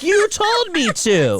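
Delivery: high innocent retort, slowed right down; mock innocent high voice. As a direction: play dumb in a squeaky, drawn-out voice.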